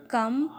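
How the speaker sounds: "come" said alone as one syllable; isolated syllable. Shown as a demonstration. Teacher breaking decomposed into syllables, "come" spoken on its own. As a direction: set "come" apart as the middle piece of decomposed. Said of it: "second syllable".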